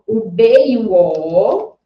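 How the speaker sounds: "o B e o O" slow and drawn out; letters sounded out. Shown as a demonstration. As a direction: stretch each letter in "o B e o O" for a learner. Teacher spells syllable for child. ("o B e o O" devagar e alongado)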